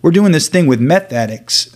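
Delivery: loud preacher cutting in. Retold or imitated. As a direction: proclaim it like the preacher. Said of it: "he goes".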